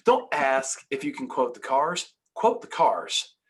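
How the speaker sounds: slow, emphatic "Don't ask if you can quote the cars"; emphatic insistence. Shown as a demonstration. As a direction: drag out "Quote the cars" slowly, landing it firmly. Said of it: "I'm so emotional over this".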